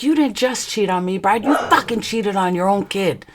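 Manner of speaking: high, insistent reproach at normal volume; retold accusation. Wife accusing husband of betraying their kid, indignant.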